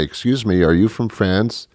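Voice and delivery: politely curious, a hint of a woman's voice; interested woman. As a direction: lean in with a light, lifted inquiry. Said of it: "lean over and say".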